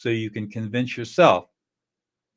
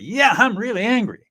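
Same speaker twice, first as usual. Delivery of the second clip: higher, louder angry admission; admitting anger; 11 semitones higher, 6 dB louder than usual. Retold or imitated. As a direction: finally own the anger. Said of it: "they said they were".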